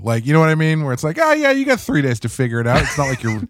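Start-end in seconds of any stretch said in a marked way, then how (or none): 1.2-3.4 sarcastic. Retold or imitated. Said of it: "completely facetiously".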